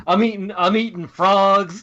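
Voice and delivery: put-on Baby Yoda voice. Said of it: "calling his family, like".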